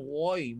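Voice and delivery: Ghai said with a heavy throaty gh, not woi; ghai from the back of the throat, lips unrounded; correct ghain sound. Shown as a demonstration. Ustaz drilling the students on ghai. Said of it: "Bukan woi".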